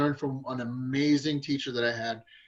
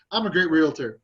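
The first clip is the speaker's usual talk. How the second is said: upbeat affirmation; 5 dB louder than usual. Shown as a demonstration. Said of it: "doing your affirmations".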